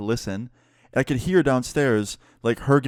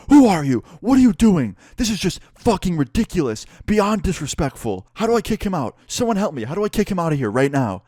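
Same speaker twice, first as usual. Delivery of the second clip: imitating an outraged professor, high-pitched; mock outraged ranting, pitched way up; pissed-off outburst; 8 semitones higher, 5 dB louder than usual. Professor reacting to intruder smoking in class, pissed-off outburst. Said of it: "He was so pissed off".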